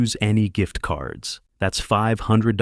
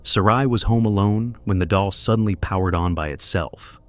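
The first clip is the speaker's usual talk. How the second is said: documentary narration. A narrator's reading. Narrator introduces viral clip.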